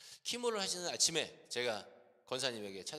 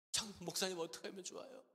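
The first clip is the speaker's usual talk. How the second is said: mock-tearful plea, pitched up; half-acted sob in the voice; retold crying; 5 semitones higher than usual. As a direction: imitate a distressed son pleading for help. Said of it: "막 우는 거예요".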